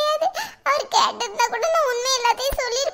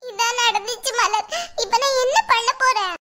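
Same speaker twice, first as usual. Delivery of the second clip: tearful helplessness. Acted. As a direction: confide helplessly through acted tears. Distraught wife confides in friend. (அழுகையோடு செய்வதறியாமல்)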